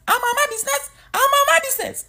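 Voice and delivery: squeaky-high mock Black American accent; very high, exaggerated Black American accent; imitating Black American accent. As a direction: push the Black American impression into falsetto. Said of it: "they have this accent".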